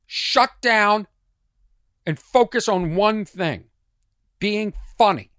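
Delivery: self pep talk. Retold or imitated.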